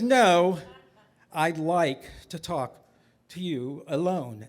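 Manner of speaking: low, measured authority with pauses; stern rabbi. Acted. Rabbi asking mother for a private talk, low and stern.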